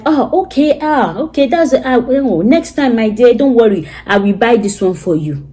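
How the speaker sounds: a touch of sweet spousal reassurance; sweet cool tone. Retold or imitated. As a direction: soothe him with a sweet, cool tone. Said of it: "you will say it in a cool tone".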